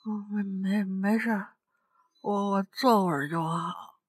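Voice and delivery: weak, soft and halting, holding back nausea; barely getting words out, about to throw up; queasy. Retold or imitated. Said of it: "强忍着恶心想吐".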